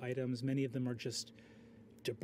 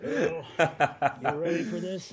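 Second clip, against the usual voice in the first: excited; 9 dB louder, faster than usual. Acted. NPC greets excitedly, loud.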